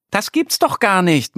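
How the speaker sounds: can't believe the stone, wide-eyed; disbelief. A narrator's reading. Annie marvels at the magic stone, high and disbelieving. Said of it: "meint Annie".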